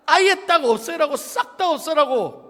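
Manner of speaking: loud, high, emphatic order; forceful acted scolding; exasperated command. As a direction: drive home an order that was ignored. Voices God's exasperated command.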